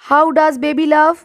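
deliberately slow question; teacher repeating slowly for students. Shown as a demonstration. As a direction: space the words out for the class. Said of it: "drilling example questions".

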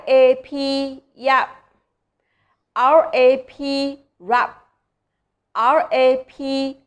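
spelled letter by letter, very slowly, then the blended syllable; slow spelling demo. Shown as a demonstration. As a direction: sound out each letter slowly before chop, yap, rap. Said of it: "好，我们重复来读啊". (慢慢逐个拼读字母再读出音节)

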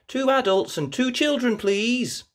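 a cheerful mum asking for tickets; mother pig buying tickets, lightly voiced; Mummy Pig voice. A narrator's reading. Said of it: "says Mummy Pig".

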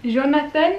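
"Jonathan" tried in a French accent, rising as a question; tentative French accent. Shown as a demonstration. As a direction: attempt a French "Jonathan", unsure, t instead of th. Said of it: "avec un accent français". (« Jonathan » essayé avec l'accent français, en question)

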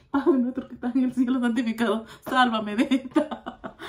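loud mock plea to heaven, breaking into laughter; mock desperate prayer. Nervous date praying behind the menu, mock desperate prayer. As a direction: pray for rescue in comic desperation, stretching out the ending. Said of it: "como diciendo ahí".

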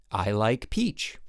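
slow, even toy-mask voice; talking baby toy. Acted. Toy mask answers the parent in a slow, even voice. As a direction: spell it out slowly like a gadget.

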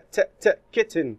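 "ت، ت" repeated as a bare sound before "kitten"; isolated sound. Shown as a demonstration. Teacher to class, sounding out the double T: isolated sound. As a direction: tap out "ت" twice, then "kitten". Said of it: "صوت الجي ولا التي".

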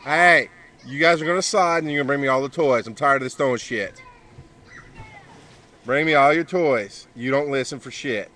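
put-on loud, stern scolding of misbehaving kids; fussing at the kids. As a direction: bark orders at the kids, fed up. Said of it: "now I want to fuss at the kids again".

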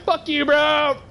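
hammed-up dismissal of the brother; mock snap. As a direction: fling it at him, scornful. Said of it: "And I'm like".

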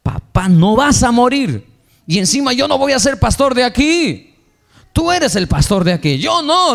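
high, forceful insistence; emphatic refusal. Retold or imitated. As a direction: push the role back onto him. Son refusing father's offer.

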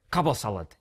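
put-on angry German accent. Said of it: "in an angry German accent".

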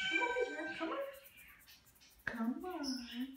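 high call. Real, not acted. Calling a cat.

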